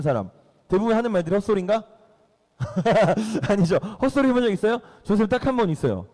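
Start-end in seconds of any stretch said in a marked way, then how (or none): 2.6-3.4 amused chuckle at one's own question; laugh. Real, not acted. (짧게 터지는 웃음)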